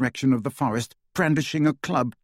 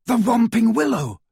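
high, loud battle cry; raised, urgent holler; urgent shout; 11 semitones higher, 5 dB louder than usual. A narrator's reading. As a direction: call it out to friends mid-battle. Calling out directions mid battle.

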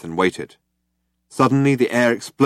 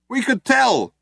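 high, raised, dry; shouting back; 3 dB louder, slower than usual. A narrator's reading. Ford shouting back at the cops, dry. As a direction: shout it drily. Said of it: "shouted Ford".

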